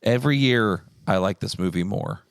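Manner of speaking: losing voice, rough and worn; hoarse voice. Real, not acted. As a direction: talk through a tired, hoarse throat. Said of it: "I'm losing my voice so bad".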